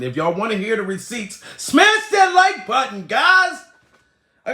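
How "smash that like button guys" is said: high, slow, loud yell; shouting. Real, not acted. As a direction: yell it at the viewers. Yells plea to viewers.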